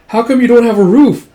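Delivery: put-on high, loud kid voice; child's question. Yoko asking about the roof, childlike. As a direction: ask it like a curious little kid.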